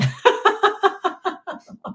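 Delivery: high-pitched burst of laughter. Real, not acted. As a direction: laugh out high at your own impression. Laughs after mimicking her answer.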